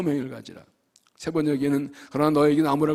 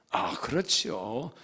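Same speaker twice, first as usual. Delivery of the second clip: put-on older colleague; 3 semitones lower, 8 dB quieter than usual. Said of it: "그런 얘기".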